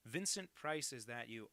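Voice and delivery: Vincent Price voice. Retold or imitated. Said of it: "I used to do a Vincent Price impression".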